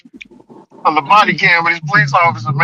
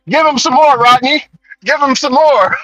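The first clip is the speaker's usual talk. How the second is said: a hammed-up cop shouting for more; excited cop; 7 semitones higher than usual. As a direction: urge your partner on, pitched way up. Officer urging partner to tase.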